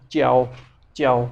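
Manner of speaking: च्याओ like chyao, falling; Chinese jiao. Shown as a demonstration. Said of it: "चे की आवाज़ निकालते हैं".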